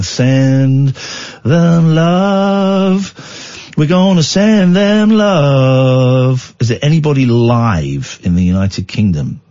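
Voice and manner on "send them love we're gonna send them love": slow, drawn-out sending love. Pretend. Host asks listeners to send love, slow and drawn out. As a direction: stretch it out tenderly.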